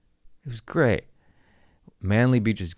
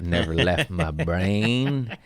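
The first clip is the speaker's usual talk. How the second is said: slow and plain; much slower than usual. Shown as a demonstration. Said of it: "repeated line".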